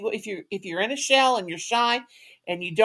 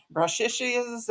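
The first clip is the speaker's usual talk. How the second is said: put-on kid's mispronunciation; 2 semitones higher, 6 dB quieter, slower than usual. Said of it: "as my kindergartners used to say".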